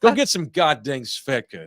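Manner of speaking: rough stab at a Russian accent; hammy, uncertain Russian English; attempted Russian accent. Shown as a demonstration. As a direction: sell it in a mock Russian voice. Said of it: "work on my Russian".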